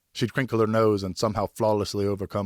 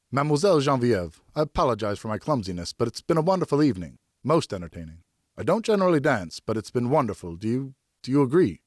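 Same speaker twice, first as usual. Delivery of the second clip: put-on nervous young man; 4 semitones higher, 4 dB louder than usual.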